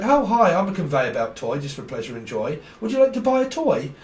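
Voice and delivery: sing-song like a wind-up toy selling itself; talking toy voice. Pretend. Voicing a conveyor belt toy.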